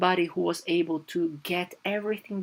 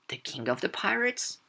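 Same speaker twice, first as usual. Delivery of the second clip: surprised; 4 semitones higher, 5 dB quieter than usual. Retold or imitated. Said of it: "like, surprise".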